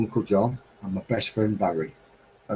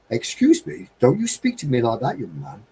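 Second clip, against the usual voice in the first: Margaret; 3 semitones higher than usual. Retold or imitated. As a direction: play a well-spoken lady correcting a cheeky youngster. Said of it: "because she spoke so well".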